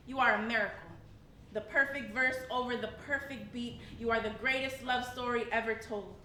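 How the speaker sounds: measured, rhythmic slam poetry delivery; spoken word poem. Acted. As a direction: recite it to the room with weight. Reciting self-love poem.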